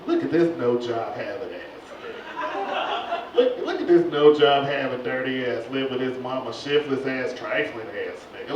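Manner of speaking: lightly voiced scornful neighbor; mock scornful onlooker. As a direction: sneer at the no-job loafer. Mocking voice of onlookers.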